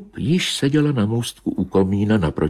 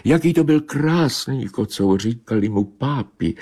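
much higher, wistful cat voice; dreamy she-cat remembering; 8 semitones higher than usual. Acted. She-cat to Bobeš, wistful and high.

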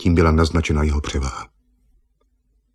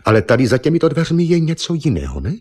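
pointed, higher questioning tone; sharp question; 8 semitones higher, 3 dB louder than usual. Acted. Eva pressing Argon about the other door, sharply. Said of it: "ostře pohledla na Argona".

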